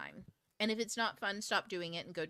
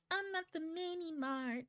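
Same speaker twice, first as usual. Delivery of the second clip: aside; 9 semitones higher, 3 dB quieter than usual. Real, not acted. Aside interrupting her own talk.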